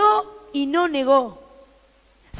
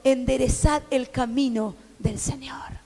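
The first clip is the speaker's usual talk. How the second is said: susurro; 6 semitones lower, 6 dB quieter than usual. A narrator's reading. Cita del profeta leída.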